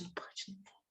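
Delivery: very soft, voiceless repeat; whispered self-correction. Retold or imitated. Woman retelling how she catches herself while chatting, whispered self-correction. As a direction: drop to a whisper, as if checking yourself. Acted self-check, voice drops away.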